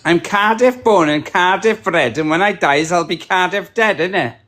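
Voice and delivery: lightly done Welsh Cardiff accent; a touch of Cardiff Welsh. Shown as a demonstration. Brit shows his Welsh accent to the chat, lightly Cardiff. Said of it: "So I'll say something".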